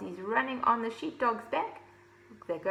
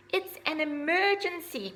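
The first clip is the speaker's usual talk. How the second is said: shout; 8 semitones higher than usual. Acted. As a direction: shout it like the sky is falling. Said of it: "cried Ozzy".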